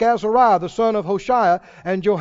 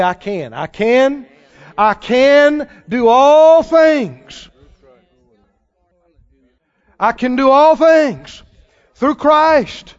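louder, slowed, rising to a shout; bold declaration; 6 dB louder, much slower than usual. Shown as a demonstration. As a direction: declare it with defiant faith. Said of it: "bite your tongue and swallow and say".

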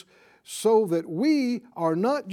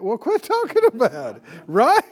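loud rebuke; 3 semitones higher, 6 dB louder than usual. Acted.

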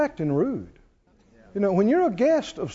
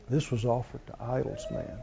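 much softer and lower, a confidential murmur; hushed aside; 8 semitones lower, 12 dB quieter than usual. Retold or imitated. A dinner guest warns Paul about the meat, hushed and confidential. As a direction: lean in and tell a secret. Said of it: "Somebody leans over and ... goes".

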